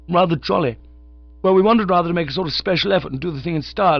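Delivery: a chirpy undergraduate rattling on; young Oxford chap. Acted. Young visitor explains the theft.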